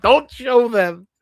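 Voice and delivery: loud, high, drawn-out self-imitation; own exaggerated talk. Streamer warns friend against showing her picture, loud high self-imitation. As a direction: belt it out slowly, hamming up your own voice. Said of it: "You know how I would talk".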